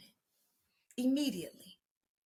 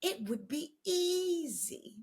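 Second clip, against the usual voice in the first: imitating Susie; 6 semitones higher, 5 dB quieter, slower than usual. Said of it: "As my friend Susie would say".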